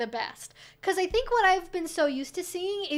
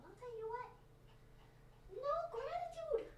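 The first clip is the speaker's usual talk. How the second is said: doting dog-talk voice; 5 semitones higher, 16 dB quieter than usual. Real, not acted. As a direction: coo at the little dog with mock hurt feelings. Cooing at her little dog.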